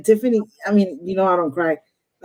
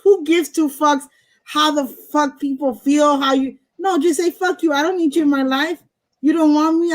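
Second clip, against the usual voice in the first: raised, heated rant, higher pitch; pissed off; 4 semitones higher than usual. Real, not acted. Reader fired up for her client, real pissed-off rant. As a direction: let the anger push the pitch up. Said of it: "See, I'm pissed off".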